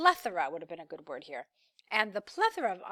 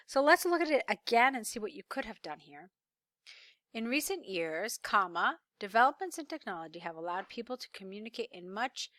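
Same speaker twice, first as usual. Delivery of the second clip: normal talking voice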